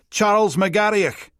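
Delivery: Charles McGarriach, high, slow and loud, gritty hiss on the "ach"; hissed och ending. A narrator's reading. Officer proudly naming the suspect, McGarriach slowly with a gritty och. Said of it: "gritty coffee machine hiss for the och".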